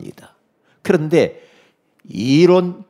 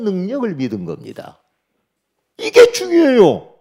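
fervent preaching; 8 semitones higher, 6 dB louder than usual. Acted. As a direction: preach it with full conviction. Preaches at full force. (힘차게 외치는 설교)

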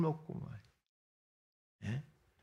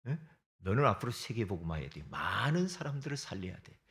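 softly doting, lower and gentle, lavishing praise; tender praise to a child; 9 semitones lower, 7 dB quieter than usual. Acted. Preacher showing parents how to bless a child, tender and doting. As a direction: coo over the child like a proud parent.

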